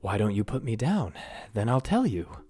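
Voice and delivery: cheeky bargain from below; tiny prince bargaining. Acted. Prince bargaining to be put down.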